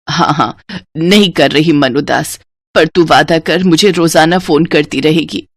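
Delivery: a mother hiding her sadness at parting; worried mother. Acted.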